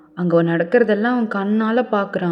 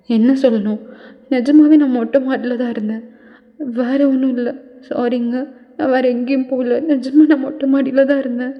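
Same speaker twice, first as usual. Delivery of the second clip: put-on higher young woman insisting she is telling the truth; pleading girl; 4 semitones higher than usual. She begs Taeyong to believe her, higher and insistent. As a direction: plead it, pitch up and keep protesting.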